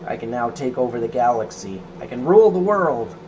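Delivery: building to a loud gloating cry; mad scientist. Pretend. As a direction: gloat like a would-be galaxy ruler. Villain gloating after laugh.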